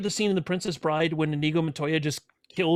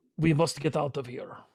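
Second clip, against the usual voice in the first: funny put-on Polish accent. In a game about funny accents, voicing a character urging escape: Polish accent. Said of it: "he speaks with his Polish accent".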